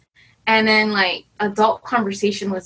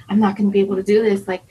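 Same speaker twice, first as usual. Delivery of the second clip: rushed, fast panicky inner voice; retold panic; much faster than usual. Retelling her dread of the black belt test, fast mock panic. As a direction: rattle it off like you're spiraling. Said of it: "I'm freaking out about it".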